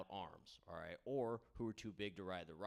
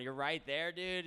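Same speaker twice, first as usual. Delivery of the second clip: higher, louder dude-bro call; odd voice to the crowd; 7 semitones higher, 5 dB louder than usual. Real, not acted. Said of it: "I don't know why I'm going".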